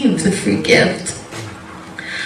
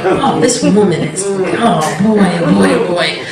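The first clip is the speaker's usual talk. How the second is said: chuckling disapproval; scandalized audience member, laughing; laughing tut-tut. Retold or imitated. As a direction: laugh along with the booing audience. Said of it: "right there with them going".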